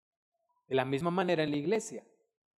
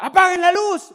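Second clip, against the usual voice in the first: higher, louder mock yell from father; imitating dad yelling; 11 semitones higher, 15 dB louder than usual. Retelling how his father yelled at the kids, mock yell. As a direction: bark it like an annoyed dad. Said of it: "nos gritara".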